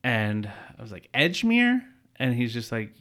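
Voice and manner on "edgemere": Edgemere asked high and sharp; shocked repeat of the address; incredulous echo. Retold or imitated. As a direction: repeat Edgemere in disbelief, pitch jumping up.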